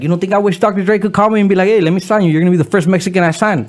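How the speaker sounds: picture the dream call coming in; excited daydream. Pretend.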